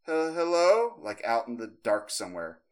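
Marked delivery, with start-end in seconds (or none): 0.0-1.0 put-on high, rising little-girl call; halting, high-pitched childlike hello. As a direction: imitate a small girl calling from the dark. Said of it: "like a little girl saying".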